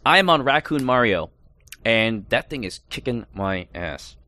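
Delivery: talking through a mouthful of jerky; chewing while talking. Real, not acted. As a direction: chew while you speak. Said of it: "so pardon my chewing".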